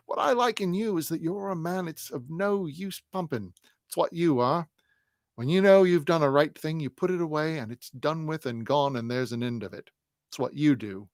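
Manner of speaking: butter him up warmly; cajoling Bucket. Acted. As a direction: Bucket praising Snagsby at the door, coaxing. Bucket flatters Snagsby at door.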